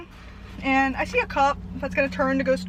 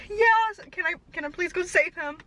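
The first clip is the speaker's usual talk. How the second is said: pleading; 5 semitones higher than usual. Retold or imitated. Pleading with the cop.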